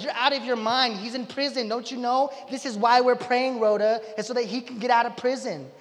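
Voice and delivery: put-on incredulous telling-off of a silly girl; mock exasperation. Praying believers explain to Rhoda, mock exasperation. Group dismisses Rhoda's news.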